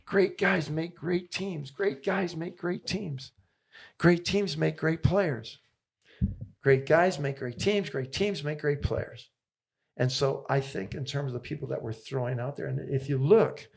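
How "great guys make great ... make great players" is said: slow and higher, each word weighed like a creed; slow, emphatic mantra. Retold or imitated. Coach repeating his mentor's motto, slow and emphatic. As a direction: lay out the motto deliberately, word by word. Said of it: "He says".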